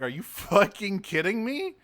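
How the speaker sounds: high, exasperated mock disbelief; incredulous outrage. Boss hearing the minion failed, incredulous.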